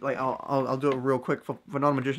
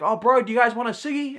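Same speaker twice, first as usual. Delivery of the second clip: friendly offer; 8 semitones higher, 3 dB louder than usual. Retold or imitated. Kids now friendly, offering cigarette.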